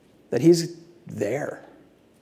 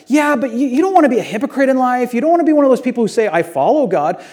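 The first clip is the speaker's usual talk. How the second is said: condemning sermon; 7 semitones higher than usual. Retold or imitated. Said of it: "The condemning sermon where I'm like".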